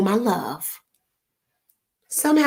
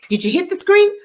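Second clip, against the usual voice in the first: higher, pressing "screen"; exasperated question; 9 semitones higher, 3 dB louder than usual. Retold or imitated. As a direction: demand it of a dad who won't listen. Frustrated question to daddy.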